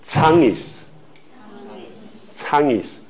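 Changis，Changis stretched very slow; drawn-out Changis. Shown as a demonstration. Teacher models the ancient word for students, very slowly. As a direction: draw out each syllable of Changis，Changis. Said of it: "古南岛语呢".

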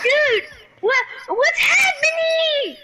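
high, slow disbelieving yell; shocked shout. Real, not acted. Shocked by lag.

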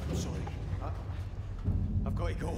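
desperate shouted apology; anguished cry. Acted. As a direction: cry out in guilt. Leaving friend behind, anguish.

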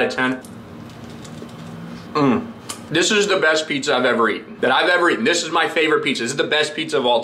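chewing while speaking; talking with mouth full. Real, not acted. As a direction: food in mouth. Seen 4: Bites pizza at -1.0, then jaw and lips keep chewing while talking.

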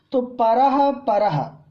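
drawn-out परह with light h; slow परह demonstration; visarga demo. Shown as a demonstration. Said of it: "ये भी विसर्ग बन जाएगा".

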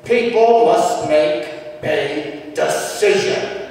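put-on loud, slow, emphatic old-time exhortation; slow, forceful pronouncement, word by word; Southern Baptist mother. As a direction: imitate a nursing-home Baptist lady proclaiming it. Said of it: "she would say".

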